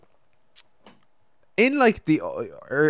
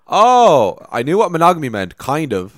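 put-on flustered teen; 7 semitones higher, 8 dB louder than usual. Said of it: "I was just like".

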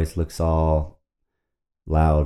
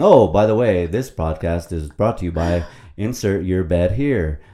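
mock ad read. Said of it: "then they're saying".

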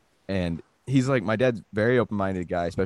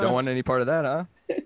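lightly strained, higher voice; trying not to laugh; 5 semitones higher than usual. Acted. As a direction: hold back a laugh, barely. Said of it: "Keeping a straight face".

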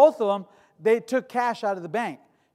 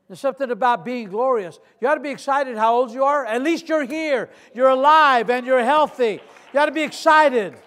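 preaching exhortation; 4 semitones higher, 6 dB louder than usual. Acted. Exhorts the congregation.

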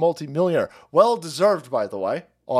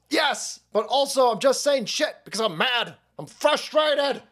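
high, hammed-up shouting old man; mock Biden, high and yelling; mock Biden tantrum; 10 semitones higher than usual. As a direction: squeal it out like a cranky toddler. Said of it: "He goes".

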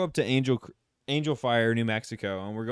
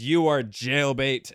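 slow, louder mock accusation; retold accusation; 5 dB louder, much slower than usual. Retelling a woman recoiling from a teenager, slow mock accusation. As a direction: draw out each word of the mock verdict. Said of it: "She points her finger at me, and she goes".

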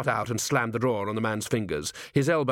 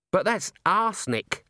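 alarmed; 8 semitones higher than usual. A narrator's reading. Horrified witness sees poison eaten.

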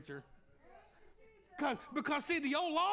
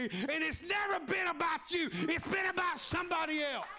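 preaching at full force; 3 semitones higher than usual. Real, not acted. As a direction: whoop it up to the congregation.

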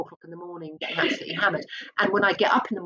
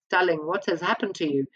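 put-on Polish accent. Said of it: "in her Polish accent".

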